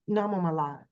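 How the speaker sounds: ordinary talk, nothing marked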